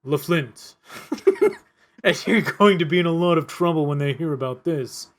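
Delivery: put-on laughing through a French accent; a cop hamming up a French accent; lightly laughing French accent. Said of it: "Keep the French accent".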